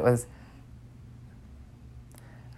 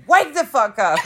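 retold yell, pitched up; imitated yell; 9 semitones higher than usual. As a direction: act out yelling at a sleeper. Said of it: "I'm yelling at you".

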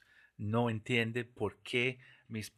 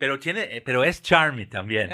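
laughing; 4 semitones higher, 13 dB louder than usual. Real, not acted. Joking about his portuñol accent.

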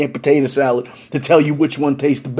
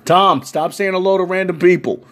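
raised-voice telling-off; calling out a reprimand; 3 semitones higher than usual. Retold or imitated. Storyteller calling Tom off greeting strangers, exasperated reprimand. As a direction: call over to a wayward friend.

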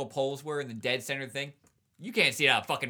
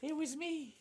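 cracking up; 11 semitones higher, much slower than usual. Real, not acted. Friend confessing his own joke, squeaky and cracking up. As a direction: squeak it out through suppressed laughter.

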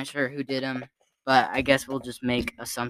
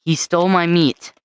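1 mock indignant quote; 3 semitones higher, 7 dB louder than usual. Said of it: "but it is".

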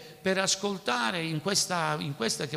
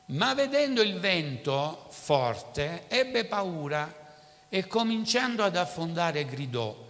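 measured, solemn Bible reading; preacher reading the passage aloud to the church; scripture reading. Acted. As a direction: read the Gospel to the congregation. Reads the Gospel passage aloud.

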